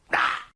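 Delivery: sudden cut-off cry; cry of pain. Acted. Man attacked mid-tirade by the children, crying out.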